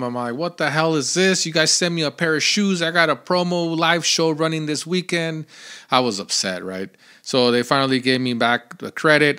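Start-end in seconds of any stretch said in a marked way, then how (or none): 0.3-5.4 higher-pitched irate complaint, not fully shouted; mildly heated rant, retelling an outburst; retold yelling. Podcaster retelling his call to Amazon, mildly yelling. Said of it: "I yelled at 'em".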